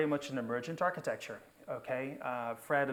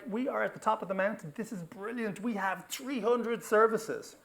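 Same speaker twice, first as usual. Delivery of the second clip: mock triumph; 7 semitones higher than usual. Mimicking team's triumph.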